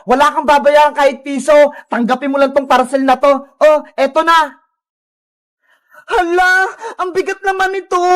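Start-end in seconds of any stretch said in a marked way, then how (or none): 0.1-4.6 low courier voice; delivery rider. Acted. Rider handing Bebang a free parcel, low-voiced. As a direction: lower the voice as the parcel man.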